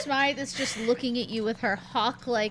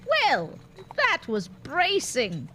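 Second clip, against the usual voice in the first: a hint of a dry old lady; dry old crone; 4 semitones higher, 3 dB louder than usual. Mary Smythe dryly remarks on the awkward scene, lightly voiced old lady. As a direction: drily remark like a cane-holding matron. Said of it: "she just says".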